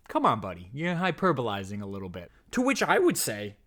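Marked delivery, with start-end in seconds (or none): 0.1-2.3 low-pitched doubting viewer; lightly voiced, lower sceptical buddy; imagined sceptic. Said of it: "you might be thinking to yourself".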